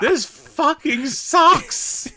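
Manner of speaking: high, slow, drawn-out mock exasperation; aggravated zombie grumble. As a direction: whine it as a hammed-up, fed-up zombie. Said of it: "less menacing and more just like, ugh, aggravated".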